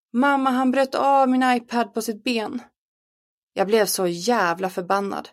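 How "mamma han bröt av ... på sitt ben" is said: put-on crying child. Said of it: "Lollo skrek och grät".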